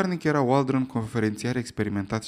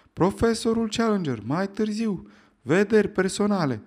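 high, raised bellowing calls; roaring; 8 semitones higher than usual. Acted. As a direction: roar for order over the noise. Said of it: "răgnea".

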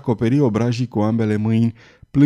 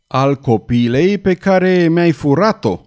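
loud, higher, slow roar of accusation; 5 semitones higher, 5 dB louder than usual. A narrator's reading. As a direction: roar at the thief of his child. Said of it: "răgni Farnes". (răget furios)

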